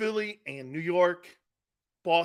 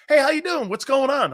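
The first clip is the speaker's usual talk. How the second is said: high, loud, cheery mock Southern hello; friendly Southern greeting; 6 semitones higher, 5 dB louder than usual. Mocking a stranger down south who greets him cheerily. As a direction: ham up a chatty stranger greeting you. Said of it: "people down south go like this".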